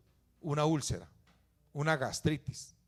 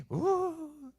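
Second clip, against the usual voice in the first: high mock whine of a child; child's whimper. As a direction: whimper like a kid clinging to mom. Imitating a crying child's whine. (gemido fingido de niño, muy agudo)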